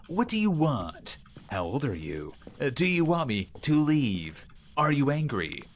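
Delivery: slow, deliberate questions to the ghost; slow and clear. Shown as a demonstration. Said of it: "I need to actually say it in a way it can understand".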